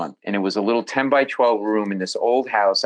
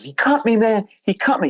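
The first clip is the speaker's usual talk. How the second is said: put-on drunk guy yelling; 10 semitones higher than usual. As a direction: yell it like a drunk who just got cut. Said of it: "He goes".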